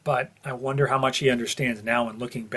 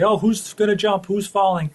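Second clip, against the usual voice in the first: higher, louder, breathless guessing; mock eager speculation; 8 semitones higher, 5 dB louder than usual. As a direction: play the excited fan theorist. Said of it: "they say".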